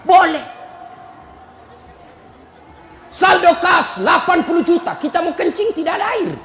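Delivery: half-laughing, half-scolding sermon to the committee; preaching at full force. Acted. Rousing preacher's scolding. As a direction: pulpit voice lecturing mosque committee members on unused cash balances.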